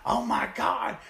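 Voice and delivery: high, loud, wailing crowd disbelief; a hammed-up arena moaning why; mock shocked crowd. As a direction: wail like betrayed fans. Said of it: "And people were shocked".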